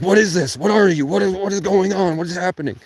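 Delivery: high, loud alarmed questions; mock alarm. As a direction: ask it in frantic alarm. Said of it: "And I'm like".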